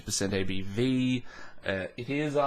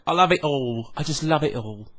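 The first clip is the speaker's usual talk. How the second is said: mock Cockney, higher and louder; Cockney accent; 4 semitones higher, 4 dB louder than usual. Joking that gushing reviewers sound Cockney, in Cockney accent. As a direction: gush it in a put-on Cockney accent. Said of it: "they do it in a Cockney accent".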